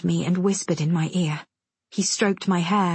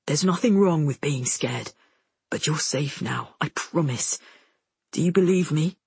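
low, gentle man's voice; reassuring; 3 semitones lower than usual. A narrator's reading. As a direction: reassure a scared child. Soldier reassures scared boy.

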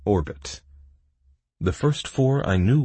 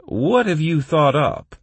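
loud, high eager question; keen and high-pitched; livening up; 12 semitones higher, 7 dB louder than usual. A narrator's reading. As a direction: ask with perked-up interest. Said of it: "livening up at the word".

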